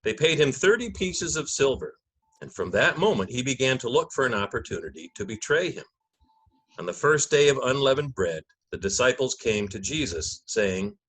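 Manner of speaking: measured, solemn Gospel narration; liturgical reading. Acted. Narrator opening the Passion for the congregation, solemn reading. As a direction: read it like Scripture from the lectern.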